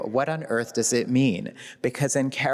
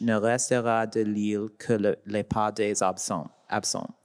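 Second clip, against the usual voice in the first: reading French aloud. Shown as a demonstration. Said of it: "she wrote in French".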